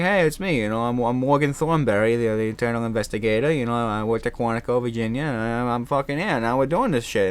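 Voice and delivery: a light Boston investigator voice; brash, lightly done Boston accent. Retold or imitated. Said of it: "I took in the Boston accent".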